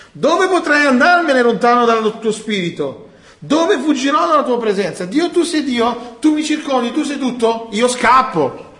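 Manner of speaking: high, loud, pleading prayer to God; impassioned psalm reading. Acted. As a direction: cry it out as David fleeing God. Preacher voicing David's psalm prayer. (preghiera accorata e alta)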